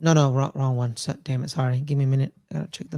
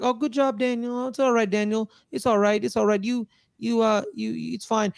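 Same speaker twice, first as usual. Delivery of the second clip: mock reassurance; 3 semitones higher than usual. Coach not just excusing his quarterback, mock soothing. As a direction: imitate a coach letting it slide. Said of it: "He didn't just, like, sit there like".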